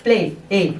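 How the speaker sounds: प्ले then ए pulled out on its own; isolating the a sound. Shown as a demonstration. Teacher isolating the ay sound for students. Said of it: "किसका sound आ रहा है".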